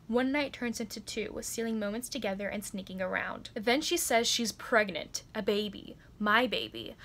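measured narration of a romance blurb; steady first-person story reading; book blurb read-aloud. A narrator's reading. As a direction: read it out like a back-cover blurb.

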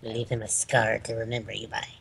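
low gruff pirate growl. Acted. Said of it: "Why did I just sound like a pirate?".

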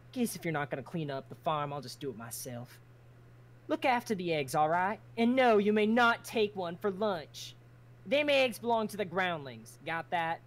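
lightly Southern farm talk; Southern retake. Acted. Tally restarting his line in Southern. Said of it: "Let me restart the line".

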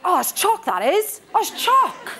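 hammed-up eighties teenage girl; teen slang quote. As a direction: gush it like a giddy teen. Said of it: "we used to say it was chock".

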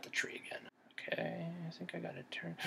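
hushed unvoiced whisper. Real, not acted. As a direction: whisper so he won't hear. Whispering while sneaking in game.

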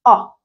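آه as a lone open "ah" vowel; a single demonstrated آه vowel; isolated vowel sound. Shown as a demonstration. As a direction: sound out آه by itself as the vowel of dog. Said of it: "vowel sound واحد اللي هو إيه؟".

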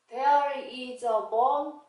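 slow "there is a bone" with "is a" joined as "iza"; linked reading. Shown as a demonstration. Teacher modeling sentence reading for learners, slow and linked "is a". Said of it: "is 하고 붙여서 읽으세요".

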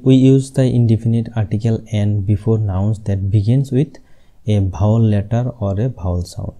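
reading the rule out slowly; slow dictation. Shown as a demonstration. Teacher dictating a grammar rule slowly to the class. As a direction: spell the rule out word by word for students. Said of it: "তো আমরা এন কখন use করি?".

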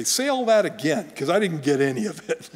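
insistent request. Retold or imitated. A parent asking the kids to repeat what was missed, insistent.

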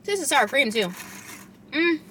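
speaking with food in mouth; muffled words between bites; talking while chewing. Real, not acted. Seen 0: Forkful of bowl food at -3; jaw chewing while talking, mouth partly closed.

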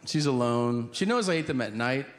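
ordinary talk, nothing marked

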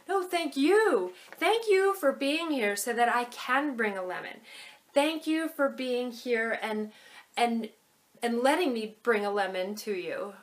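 "you" in "thank you" pressed and falling; stress on you. Shown as a demonstration. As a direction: lean on "you" in each "thank you". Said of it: "the word you is actually emphasized".

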